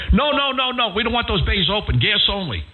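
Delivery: high, protesting no no no from the boss; lightly mimicked corporate objection; insistent company executive. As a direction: play the vice president shutting him down. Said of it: "The, the vice president of the company".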